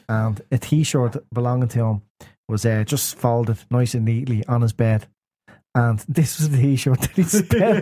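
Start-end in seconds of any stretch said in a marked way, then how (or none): 5.8-7.8 slow telling breaking into laughter; laughing while talking. Real, not acted. Friend telling a story about his mate's T-shirt, starting to laugh. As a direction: start cracking up mid-story.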